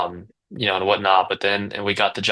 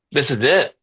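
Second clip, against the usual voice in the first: higher-pitched burst of triumph; retold elation; 6 semitones higher, 4 dB louder than usual. Owner retelling being off the truck, elated. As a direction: relive the thrill of a breakthrough.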